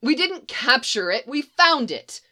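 can't stop explaining his discovery; proud scientist rattles off findings to troopers; eager spiel. Acted.

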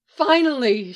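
relieved loud exclamation; excited cry of relief; exclaimed. Acted. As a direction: burst out with relief. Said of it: "she exclaimed".

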